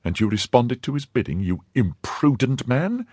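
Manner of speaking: put-on young wife voice. A narrator's reading. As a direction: scold him in the wife's voice. Madame Bonacieux voiced in story.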